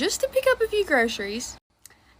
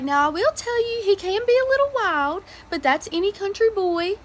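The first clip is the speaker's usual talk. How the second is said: put-on higher and louder old lady voice; granny insisting her wild grandson is fine, higher and louder; emphatic granny warning; 6 semitones higher, 4 dB louder than usual. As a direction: lean in like a granny confiding a secret. Old lady warns about grandson.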